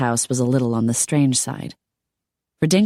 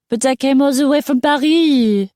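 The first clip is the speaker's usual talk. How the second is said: put-on high, loud French-accented wail; pleading, very high-pitched protest; plaintive; 11 semitones higher, 5 dB louder than usual. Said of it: "The plaintive voice was cut off".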